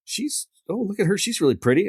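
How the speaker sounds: Sammy baiting. Retold or imitated. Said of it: "Sammy goes".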